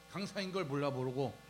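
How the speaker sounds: ordinary talk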